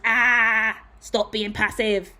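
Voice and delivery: exasperated cry, then slowing down; frustrated outburst. Acted. Reader channeling the Aries fed up with passivity, mock frustrated outburst. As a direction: let a mock yell burst out, then drag the words. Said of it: "make you wanna raise your voice".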